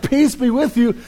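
lightly voiced, gently calming; calm greeting. Jesus greets frightened disciples, calmly reassuring. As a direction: soothe the terrified disciples, evenly. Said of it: "he's like".

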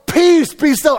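high, loud commanding shout; yelling at storm. Retold or imitated. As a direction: yell a command over the storm. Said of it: "Jesus starts yelling at the storm".

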